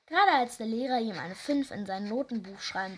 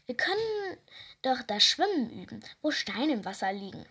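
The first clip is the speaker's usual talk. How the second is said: bleating goat. Acted. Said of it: "meckerte sie".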